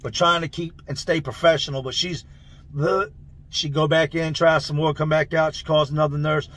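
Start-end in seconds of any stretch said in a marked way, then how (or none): 2.8-3.1 short retching "uh"; mimed stomach heave; imitated gag. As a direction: gag briefly, holding it back.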